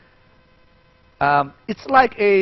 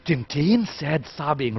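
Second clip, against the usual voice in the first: more excitedly; 5 dB quieter, slower than usual. Shown as a demonstration. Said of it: "a more excitedly".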